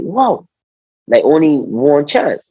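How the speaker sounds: mildly stunned reaction, retold; dismayed disbelief. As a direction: retell being taken aback, stretching the words. Reacting to being dropped from trials.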